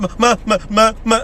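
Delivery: mock bawling for parents; imitated child crying. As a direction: wail like a hurt kid. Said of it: "Did you ever cry like that?".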